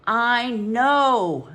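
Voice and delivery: put-on boy snapping at the fawning porter; snapped. A narrator's reading. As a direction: cut him off in exasperation. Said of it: "snapped Ronifer".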